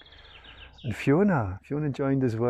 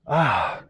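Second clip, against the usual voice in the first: contented, open "ah"; blissful sigh; 3 semitones higher, 5 dB louder than usual. Real, not acted. Host savouring a beautiful evening outside, blissful sigh. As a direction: sigh it out with real pleasure.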